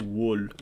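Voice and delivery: "wool" with a short, rounded oo; older pronunciation. Shown as a demonstration. Player guessing an old form, "wool" with short oo. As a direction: say "wool" with the vowel of "good". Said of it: "probably at some point".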